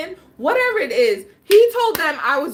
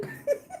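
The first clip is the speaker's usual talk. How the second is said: short squealing laugh; high laugh; 9 dB quieter than usual. Real, not acted. Fearing an STD test, squealing laugh. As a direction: giggle through it.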